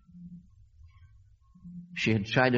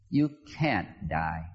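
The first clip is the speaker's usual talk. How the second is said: calm sweet voice; 5 semitones lower, slower than usual. Retold or imitated. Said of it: "It was just calm and sweet and".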